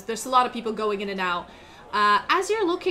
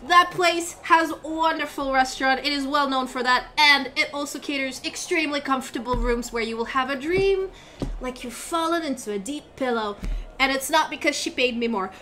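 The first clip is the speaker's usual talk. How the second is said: excited; 4 semitones higher than usual. Acted. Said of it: "he starts getting excited and goes".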